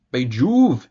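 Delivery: sudden loud cry of surprise; startled exclamation. Acted. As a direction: blurt it out, startled. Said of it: "exclaimed Berg".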